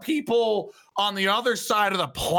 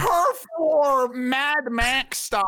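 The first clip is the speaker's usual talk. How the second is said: excited shout; 6 semitones higher, slower than usual. Real, not acted. Excited rat war talk.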